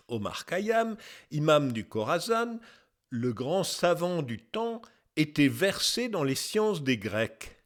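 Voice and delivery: put-on measured, slightly declaimed reading of an old text; lightly declaimed quotation. Narrator quoting an old scholar's testimony, lightly declaimed. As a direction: read it out as a formal testimony.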